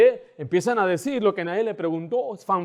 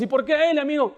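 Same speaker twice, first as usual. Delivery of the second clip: mock jealous child; 7 semitones higher, faster than usual. Voicing jealous childish believer.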